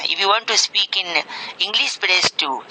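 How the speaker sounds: slow, even recorded-menu voice; automated phone menu voice. Pretend. Prank call as IVR menu.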